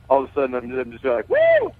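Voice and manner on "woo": very high whoop; high celebratory yell; yelling woo. Retold or imitated. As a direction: let out a joyful whoop. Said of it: "like, yelling".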